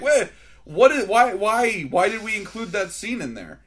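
mock disbelief at the film; baffled. Mock-baffled viewer reaction.

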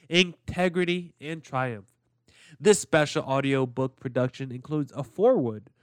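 upbeat sponsor read voice. Acted. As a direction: sell it like a podcast ad.

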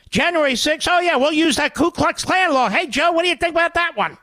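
mock a governor's self-righteous rant; Christie impression. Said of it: "to Chris Christie there".

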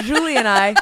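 giggling through words; laughing. Real, not acted. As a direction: laugh while saying it. Laughing at own slip.

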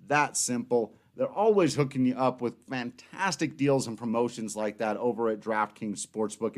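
ad read. Acted. Sponsor ad read.

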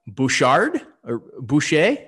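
attempted French accent, slow and questioning. Shown as a demonstration. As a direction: try the names in a tentative French accent. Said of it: "try this in a French accent".

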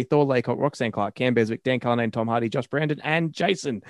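rattling off names without breathing; all in one breath. Real, not acted. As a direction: race through the list on one breath. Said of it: "In one bre-, one breath".

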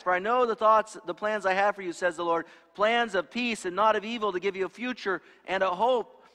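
a touch of the hopeful graduation orator; graduation speech quote. Retold or imitated. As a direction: recite it like an upbeat commencement speaker. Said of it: "we hear that text all the time at graduation".

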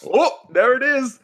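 high, drawn-out Minnesotan "oh"; Minnesotan accent. Acted. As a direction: slide into an exaggerated Minnesotan accent. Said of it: "mine just falls into Minnesotan".

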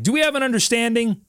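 a hint of a dad demanding agreement; stern dad. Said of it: "that dad that says".

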